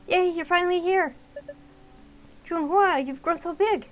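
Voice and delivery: high, loud delighted cheer; excited greeting. Acted. Aunt greeting Noelle with a high happy cheer. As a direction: greet the niece with joy.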